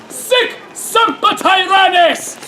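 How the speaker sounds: high, slow battle cry; conspirators' cry. Acted. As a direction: call it out like a war cry. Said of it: "conspirators cry out".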